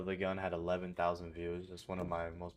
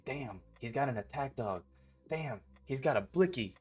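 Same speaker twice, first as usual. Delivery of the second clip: mock alarm; 6 semitones higher than usual. Acts out the scared intruder's reaction.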